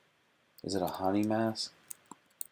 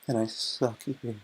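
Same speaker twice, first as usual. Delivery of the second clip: louder, higher, slow and pleading; eager girl voice; 4 semitones higher, 5 dB louder, much slower than usual. Retold or imitated. Streamer acting the girl asking the guy, eager put-on voice. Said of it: "And she goes".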